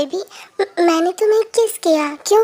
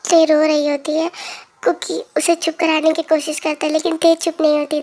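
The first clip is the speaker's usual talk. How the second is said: lower, even narrator voice; story narration; 3 semitones lower than usual. A narrator's reading. Narrator tells listeners how Kookie kissed Tete, calm story narration. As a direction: narrate the moment calmly.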